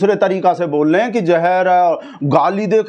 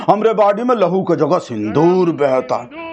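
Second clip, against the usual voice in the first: mock Modi speech; 2 semitones lower than usual. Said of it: "सिंदूर को बोलने में मजा आता है".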